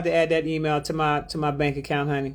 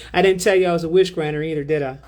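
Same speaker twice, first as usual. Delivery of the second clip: laughing; 3 semitones lower, faster than usual. Real, not acted. Laughs about being wish granter.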